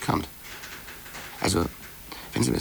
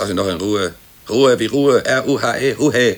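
loud insistence; 6 dB louder than usual. Acted. Insisting colleague leave him alone.

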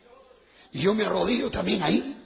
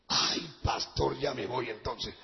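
nervous excuse; 10 semitones lower, 9 dB quieter, slower than usual. Retold or imitated. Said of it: "nervous excuse".

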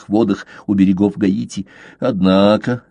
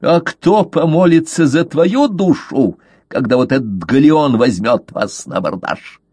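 mocking; 4 semitones higher than usual. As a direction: taunt him with open scorn. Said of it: "ответил издевательски".

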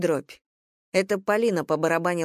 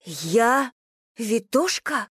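pitched-up stunned repeat; shocked; 5 semitones higher, much slower than usual. A narrator's reading. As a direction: echo the insult in shock. Liza stunned by the insult.

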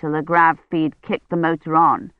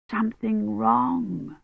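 slow, much softer, weak and drifting; fading murmur; 4 semitones higher, 7 dB quieter, slower than usual. Acted. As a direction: say it as you pass out. Feverish patient before fainting.

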